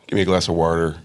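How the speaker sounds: low, flattened Missouri vowels; a low-key Midwestern "water" with a hard R; Midwestern accent. Shown as a demonstration. Missouri native showing the home accent, Midwestern accent. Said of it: "all the A's get flattened out".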